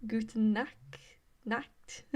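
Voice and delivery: English speaker trying "Guten Nacht", sounding out the "cht" in "Nacht"; "Guten Nacht" as a learner's careful German attempt; attempted German pronunciation. Shown as a demonstration. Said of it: "the k sound isn't too bad. It's, like, the T at the end".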